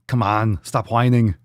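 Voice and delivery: mock scolding. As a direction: bark it at the whiners, playfully. Repeating a jokey chant to chat.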